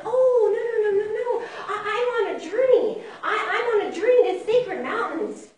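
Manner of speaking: high, flustered little mouse; Jumping Mouse voice. Acted. Jumping Mouse declining to stay, high and flustered. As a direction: protest in a high mouse voice, tripping over words. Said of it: "And Jumping Mouse said".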